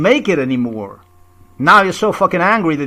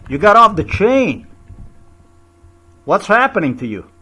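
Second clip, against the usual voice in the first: raised, louder-edged challenge; heated accusation; 4 semitones higher, 3 dB louder than usual. Real, not acted. Confronting those in power over their madness, heated accusation. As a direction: throw the questions out, high and insistent.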